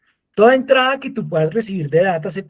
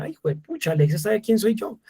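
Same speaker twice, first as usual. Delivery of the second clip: a much higher, softer gasp of amazement; mock amazement; 4 semitones higher, 3 dB quieter than usual. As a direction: act out being amazed the device knows you. Retold amazement at Alexa. (asombro fingido, más agudo y suave)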